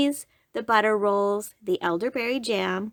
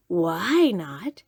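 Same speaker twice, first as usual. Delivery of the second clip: friendly wolf voice; 3 semitones lower than usual. Acted. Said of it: "becoming friendly".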